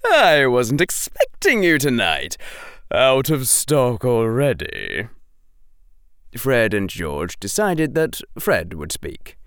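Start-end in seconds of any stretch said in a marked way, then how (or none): 0.0-5.1 put-on much higher, louder creaky old man greeting; old shopkeeper. Old shopkeeper woken at night.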